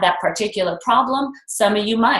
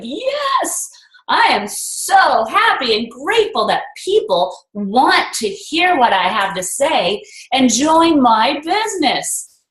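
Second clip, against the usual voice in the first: almost shouting; 3 semitones higher, slower than usual. Retold or imitated. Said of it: "I was just almost shouting".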